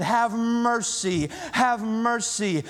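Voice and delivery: slow, drawn-out cry for mercy; calling out a plea. Acted. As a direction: stretch each word as an earnest plea. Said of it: "They called out to Jesus".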